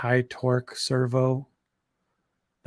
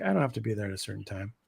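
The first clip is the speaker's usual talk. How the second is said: mildly lazy self-quote, softer and quick; imitating own can't-be-bothered attitude; complacent, lazy; 3 semitones lower, 7 dB quieter, much faster than usual. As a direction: toss off an idle excuse, trailing down. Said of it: "I'm complacent, I guess, or lazy".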